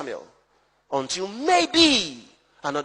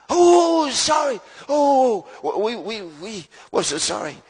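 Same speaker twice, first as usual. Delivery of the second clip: flustered apology; 2 semitones higher, 5 dB louder, slower than usual. Acted. Disciples caught asleep apologizing to Jesus, flustered. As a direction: blurt the apology, then trail off.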